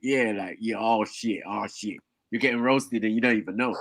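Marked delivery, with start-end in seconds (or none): 0.6-2.0 soft, lower crusty mumble; crusty sick voice. Retold or imitated. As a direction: shrug it off, sick and unbothered. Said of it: "his actual voice tone ... sounded more like".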